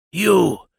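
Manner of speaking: a sudden, high, loud shriek; possessed man screaming at the captain; demonic scream. A narrator's reading. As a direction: hurl the word at the intruder. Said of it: "the naked man was screaming".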